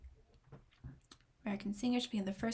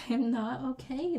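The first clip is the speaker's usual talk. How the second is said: laughing while repeating it, a bit higher; 4 semitones higher, 5 dB louder than usual. Real, not acted. Overwhelmed by the music, laughing. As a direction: giggle through the words.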